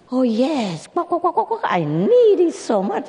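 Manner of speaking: very high, squawking duck voice; a frantic duck crying for help; shrill quacking plea; panicked duck. Acted.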